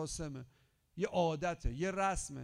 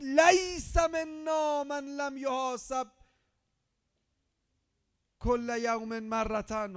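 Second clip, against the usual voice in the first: slow, high, loud Arabic recitation; shouted hadith recital; 5 semitones higher, 11 dB louder, much slower than usual. Shown as a demonstration. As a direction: proclaim "لیس" as a cry. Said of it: "فرمود". (حدیث را بلند و کشیده فریاد بزن)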